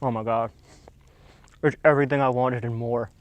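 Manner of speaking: hushed through a hot bite; savoring while chewing; mouth full. Real, not acted. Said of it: "I'm trying it".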